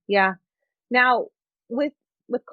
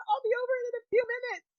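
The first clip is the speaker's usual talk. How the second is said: fast, high, laughing aside; laughing through it; 13 semitones higher, 5 dB quieter, much faster than usual. Real, not acted. Explaining she will recover soon, laughing. Laughing while retelling crying.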